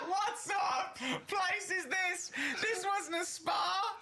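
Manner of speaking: very high, slow falsetto squeal; mock shrieking lady. Mocking the therapist in a shrill falsetto squeal. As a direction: shriek it like a scandalised old dear.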